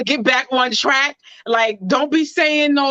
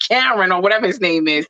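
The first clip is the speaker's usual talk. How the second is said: laughing; 2 semitones lower, faster than usual. Real, not acted. Laughing at confusion.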